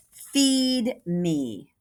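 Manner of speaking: monster demanding food; hungry thing. Acted. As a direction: growl it like a hungry creature.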